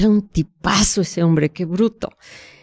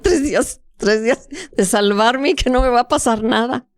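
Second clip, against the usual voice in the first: a lighter, higher voice of hopeful relief; clinging to three days of safety; relieved inner thought; 5 semitones higher than usual. Retold or imitated. Young bride hoping for three safe days, higher and relieved. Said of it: "Y yo decía".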